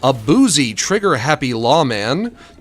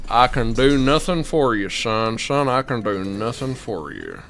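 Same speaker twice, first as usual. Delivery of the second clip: lawman voice; 4 semitones lower than usual. Retold or imitated. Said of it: "why I do that voice".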